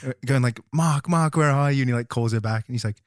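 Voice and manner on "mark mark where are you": calling Mark. Retold or imitated. Retelling Layla calling.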